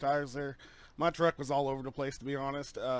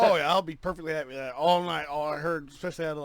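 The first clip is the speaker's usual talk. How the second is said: laughing; 7 dB louder than usual. Real, not acted. Laughs while agreeing with host.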